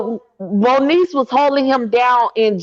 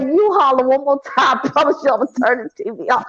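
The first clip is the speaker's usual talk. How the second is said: husband's warning; much faster than usual. Retold or imitated. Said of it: "He said".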